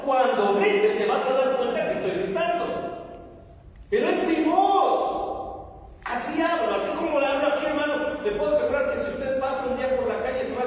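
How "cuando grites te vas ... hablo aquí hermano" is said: raised voice, insisting it isn't shouting; naturally loud voice. Real, not acted. Preacher defending a loud voice to the congregation, raised and emphatic. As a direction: project strongly, stretching the last phrase high. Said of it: "es que no estoy gritando".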